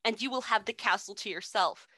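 lightly voiced wicked witch, rising at the end; dramatic reading of witch. The witch's last words read out to the co-host in a hint of a witch voice. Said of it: "which I have to read 'cause they're just great".

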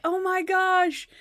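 high, drawn-out gasp of words; slow, high appalled reaction; mock dismay. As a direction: stretch it in cringing disbelief. Cringing reaction to the bad sign-off.

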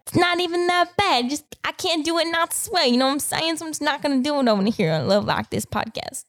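put-on high, playful country accent. Podcaster excusing a failed accent attempt, country accent. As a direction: slip into a put-on country twang. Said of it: "that went a little bit country there".

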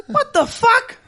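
high laughing disbelief; incredulous laugh. Real, not acted.

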